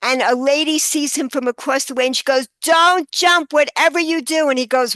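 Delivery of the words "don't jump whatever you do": higher, slightly raised retold call; mock urgent call to stop someone jumping; urgent plea. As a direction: call it across, pitched up, half-shouted. Lady calls to man about to jump.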